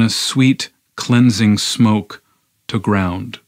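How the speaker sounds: intense, driving poem recitation; poetry reading. Acted. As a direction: build through the long sentence, then let it land.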